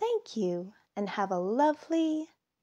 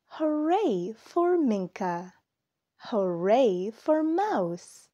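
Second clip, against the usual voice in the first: cheering; 3 dB louder, slower than usual. Acted. Cheering the characters.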